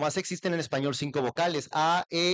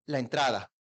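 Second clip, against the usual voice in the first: quick repetition; 3 semitones lower than usual. Shown as a demonstration. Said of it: "Rápido".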